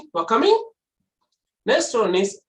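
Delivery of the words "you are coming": "You are coming" high, rising at the end; questioning intonation. Shown as a demonstration. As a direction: ask "You are coming" with a clear rise. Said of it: "same words I am using".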